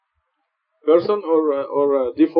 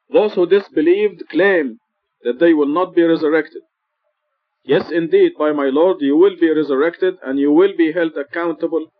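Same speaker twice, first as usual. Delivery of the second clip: scripture reading. Acted. Reciting the verse slowly.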